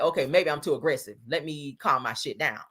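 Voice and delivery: mock self-soothing, easing off; a touch of put-on restraint; imitated calming down. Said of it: "he done calm down".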